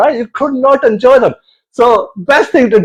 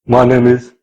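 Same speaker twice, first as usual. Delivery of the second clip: Chinese guy introducing himself; 9 semitones lower than usual. Retold or imitated. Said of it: "every time I met them".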